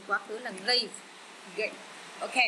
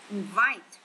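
inVITE, second syllable louder; stress on second syllable; 5 dB louder than usual. Shown as a demonstration. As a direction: punch the VITE in Invite. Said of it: "nhấn âm hai". (nhấn âm hai: inVITE)

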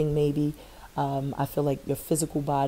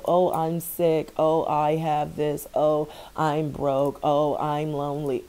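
slow, drawn-out mock moaning, lightly done; mock self-pity; slower than usual. Reader mimics viewers' negative self-talk, slow mock whine. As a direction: sigh out each "oh" like a half-hearted complainer. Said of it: "Don't talk like that".

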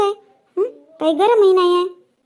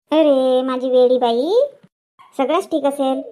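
tender reassurance; 5 semitones lower, slower than usual. Acted. Mother soothes worried daughter.

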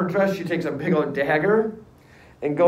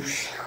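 whooshing, breath-only splash effect; splash noise; 9 dB quieter than usual. Retold or imitated. Teacher imitating carriage through puddle, whooshing splash. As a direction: imitate a passing carriage with a puff of air.

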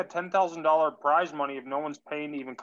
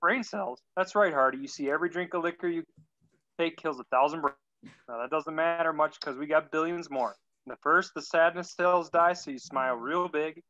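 put-on pathetic Southern accent. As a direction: read it in a weak Southern accent. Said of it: "a very pathetic Southern accent".

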